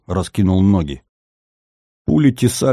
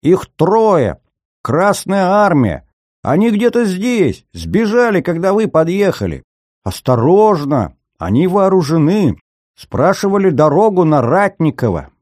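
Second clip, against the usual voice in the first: frantic shouting hostage taker; 10 semitones higher than usual. A narrator's reading. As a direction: keep yelling in panic. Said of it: "надрывно закричал Силантий".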